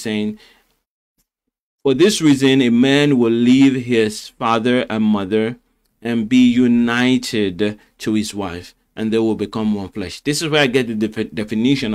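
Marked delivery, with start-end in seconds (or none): 1.8-10.2 scripture reading. Acted. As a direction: proclaim the verse slowly with weight. Reads scripture aloud, first time.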